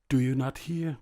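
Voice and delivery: high, loud call to a deaf ear; loud cry. A narrator's reading. Landlord shouting at the deaf grandmother, loud cry. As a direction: call out as loud as you can. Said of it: "cried the landlord as loud as he could".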